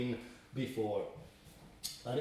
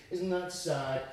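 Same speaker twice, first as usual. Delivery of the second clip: mock pity; 4 dB quieter than usual. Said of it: "God is not saying".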